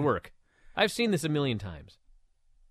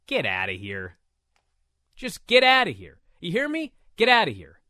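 exasperated dismissal. Real, not acted. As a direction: wave it off in disbelief. Dismissing fan opinion.

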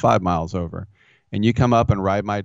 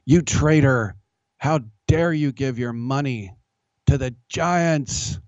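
higher, whiny heckler; mocking heckler voice; 5 semitones higher than usual. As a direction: play the outraged fan, whiny. Heckler mocked in retold Twitter argument.

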